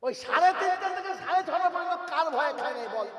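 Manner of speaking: high, chanted demand; ringing, high-pitched challenge; insistent challenge. Acted. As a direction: throw the question out high, then let it descend. Fasting challenges in acted dialogue.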